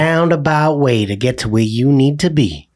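drawn-out Southern drawl; slow Southern accent. Shown as a demonstration. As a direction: take your time in a roundabout Southern drawl. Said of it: "When you talk like this".

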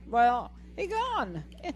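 high-pitched, hammed-up disbelief; mock bewilderment. Host retelling guest dropping off, mock bewilderment. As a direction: replay your surprise at losing someone, voice way up. Acts out her surprise at disconnection.

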